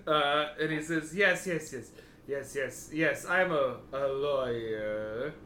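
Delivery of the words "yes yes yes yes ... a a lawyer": slow weary lawyer. Acted. GM voices Elian.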